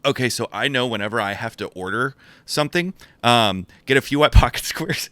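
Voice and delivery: retold order, laugh breaking in late; suppressed laugh. Buyer orders beside the mad maker, trying not to laugh. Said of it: "trying also not to laugh".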